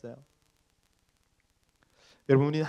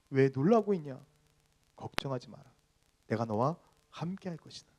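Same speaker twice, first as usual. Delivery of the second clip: God reassuring; 4 dB quieter than usual. Acted. Pastor voicing God promising to be with you, soft reassurance. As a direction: drop to a quiet, comforting promise. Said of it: "내가 이렇게 얘기하지 않았느냐".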